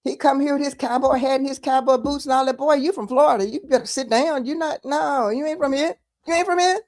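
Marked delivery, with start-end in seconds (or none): 2.6-6.8 rising, scoffing dismissal, ending higher; lightly voiced local telling an outsider to sit down; mock Texan put-down. Texans dismissing Alan West, mock scoffing put-down.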